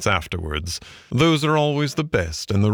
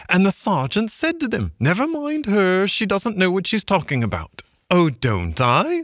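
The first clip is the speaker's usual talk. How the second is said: high-pitched retelling voice; Mole's excited tale; 10 semitones higher than usual. Acted. Mole recounting the stoat sergeant, pitched high. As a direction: relish every word of the trick.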